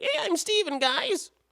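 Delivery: put-on very high-pitched, just-hit-puberty boy voice. Doing an impression of a young voice actor's character to show he can still manage it. high-pitched boy voice. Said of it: "You can do a high pitched slash, like I, I, I just hit puberty voice".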